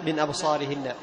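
slow, measured Quran recitation; drawn-out chanted Quran reading; tajweed recitation. Shown as a demonstration. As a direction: recite the verse with careful articulation.

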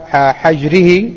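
حجره slowly, with short a after ح, "hajrihi"; fatha on حجره. Shown as a demonstration. Teacher explaining the word's two forms, حجره said "hajrihi" with fatha. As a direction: open the ح of حجره with fatha, as "hajr". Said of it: "بفتح الحاء المهملة وكسرها".

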